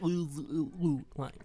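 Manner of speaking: put-on nonsense ooh noises as a made-up accent; mock-accent babble on a drawn-out ooh; garbled mock accent. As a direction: imitate an unplaceable accent in wordless oohs. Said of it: "I don't know what accent that is".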